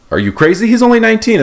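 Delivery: high mock disbelief, rising sharply; shocked objection. Congressman objects to the scheme, mock shock. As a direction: act scandalized at the idea. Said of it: "they're like".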